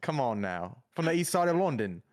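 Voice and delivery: hammed-up mock Cockney; jokey Cockney geezer; awful Cockney accent. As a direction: do a bad East London Cockney. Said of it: "my awful accent".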